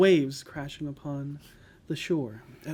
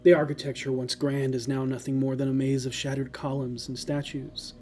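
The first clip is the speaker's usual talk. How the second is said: solemn descriptive narration; story narration. Acted. Game master's scene setting.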